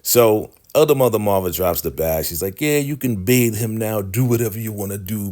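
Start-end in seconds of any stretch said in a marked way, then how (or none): 2.6-5.3 higher, mock-huffy concession; jealous, pissed off. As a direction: imitate someone giving in resentfully. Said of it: "she is so pissed off, jealous".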